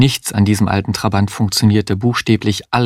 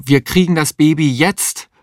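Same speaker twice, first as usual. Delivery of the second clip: higher-pitched urgent insistence; insistent cry; 7 semitones higher than usual. A narrator's reading. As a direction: call out, insisting. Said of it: "rief Mario". (drängend und höher gerufen)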